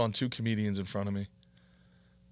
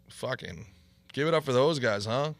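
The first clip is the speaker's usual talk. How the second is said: retold angry rant; 4 semitones higher, 7 dB louder than usual. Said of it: "and I'm like".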